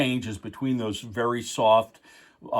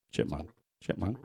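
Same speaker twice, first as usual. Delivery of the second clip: fast, squeaky pitched-up vocoder voice; sped-up chipmunk effect; 3 semitones lower, 9 dB quieter, faster than usual. Shown as a demonstration. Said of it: "starts sounding like a chipmunk".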